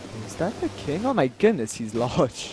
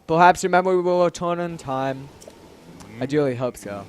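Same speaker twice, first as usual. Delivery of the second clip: lightly voiced stately king; a touch of formal regal gravity; deep manly voice; 2 semitones lower than usual. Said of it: "let's give him a deep, manly voice".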